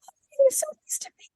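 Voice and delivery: put-on squeaky high cracking teen voice; mock the boy's breaking voice. Imitating Paulie's puberty voice crack to Amy, squeaky high. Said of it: "his voice is changing".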